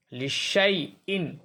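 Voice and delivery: drawn-out recitation, alif left silent; slow tajweed recitation; Quranic recitation. Shown as a demonstration. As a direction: recite it slowly with the alif unspoken. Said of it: "silent है".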